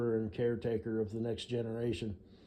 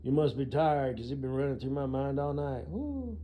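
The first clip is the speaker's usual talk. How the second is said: cheesy pickup line; 2 semitones higher than usual. Retold or imitated. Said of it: "some sort of line, something clever and original".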